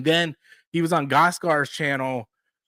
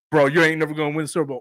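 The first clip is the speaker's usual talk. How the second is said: rapid dismissal; much faster than usual. Retold or imitated. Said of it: "sit there and go".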